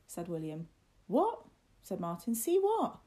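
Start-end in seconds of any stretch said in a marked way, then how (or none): 1.1-1.4 high, loud, rising "what"; startled question. A narrator's reading. Martin startled by William's words. 2.3-3.0 high, loud, baffled question; startled demand. A narrator's reading. Martin startled by William's words.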